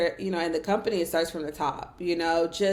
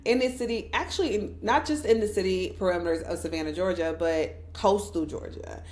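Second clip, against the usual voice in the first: poised pageant answer. Shown as a demonstration. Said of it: "pageant voice on".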